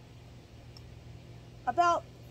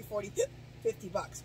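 talking through hiccups; a hiccup breaks the words; 3 dB quieter than usual. Real, not acted. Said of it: "Why do I have the hiccups?".

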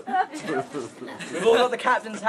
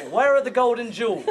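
leprechaun sing-song. Retold or imitated. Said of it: "like an Irish leprechaun singing".

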